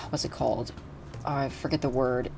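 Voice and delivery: unvoiced whisper while searching for the word; breathy aside to herself; whispered to self. Real, not acted. Forgetting a word mid-sentence, whispering to herself.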